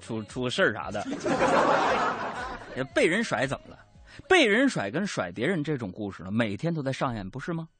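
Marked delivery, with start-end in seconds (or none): 1.1-2.9 airy high laugh, falling; a breathy giggle that trails off. Real, not acted. Host laughing at his traffic warning, airy high laugh.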